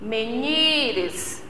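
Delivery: "Menires" softly, with a long NI in the middle; soft "Menires", middle syllable NI held; stress on NI. Shown as a demonstration. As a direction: lean on and stretch NI in "Menires". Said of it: "a sílaba forte é o".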